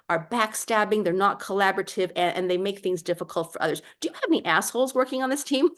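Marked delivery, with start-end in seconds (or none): 4.0-5.7 blunt confident question. Retold or imitated. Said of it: "I talk like that".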